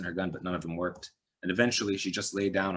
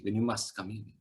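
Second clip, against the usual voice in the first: arch; 2 semitones higher than usual. Acted. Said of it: "he said archly".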